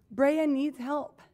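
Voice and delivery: slow, each word weighed; slow plea. Retold or imitated. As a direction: spell out the plea slowly. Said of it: "blow up his inbox with".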